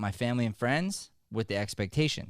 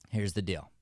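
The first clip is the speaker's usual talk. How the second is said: confiding whisper. Acted. Teacher telling students the secret, whispered. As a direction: lean in and whisper it.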